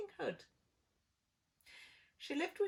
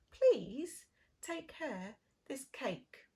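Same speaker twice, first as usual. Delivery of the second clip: mother's voice; 4 semitones higher, 6 dB louder, slower than usual. Acted. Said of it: "said Little Red Riding Hood's mother".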